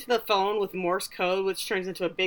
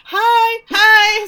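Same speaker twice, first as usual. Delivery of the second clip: high, loud calling-out hello; re-enacted loud greeting; 13 semitones higher, 12 dB louder than usual. Host interrupting her voicemail for a passer-by, calling out. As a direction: call out greetings over your own message.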